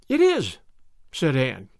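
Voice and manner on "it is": high, bright-spirited assurance; much higher, cheerfully sure girl; gaily confident. A narrator's reading. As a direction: sing out your confidence gaily. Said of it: "gaily confident".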